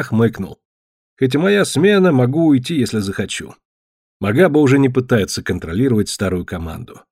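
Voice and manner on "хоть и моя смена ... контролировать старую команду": plain reading voice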